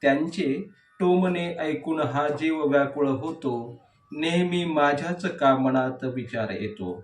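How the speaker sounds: measured verse reading with falling line endings; declaimed poetry, leaning on each opening word; poem recitation. Acted. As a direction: recite the verse line by line, pausing between phrases.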